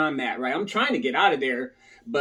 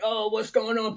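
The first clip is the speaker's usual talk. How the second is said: retold confusion; 6 semitones higher than usual. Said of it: "I'm just like".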